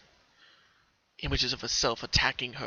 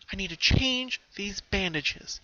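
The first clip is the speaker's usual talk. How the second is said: put-on higher, slow girlish voice; pony decides to tend her wounds, resolute; lightly voiced Pinky; 7 semitones higher, slower than usual. A narrator's reading. Deciding calmly.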